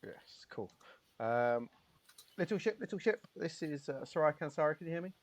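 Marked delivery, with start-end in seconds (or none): 2.4-5.1 higher-pitched ship-to-ship call; radio hail. Acted. Soraya calls the little ship, higher-pitched radio hail. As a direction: hail the other pilot in a raised voice.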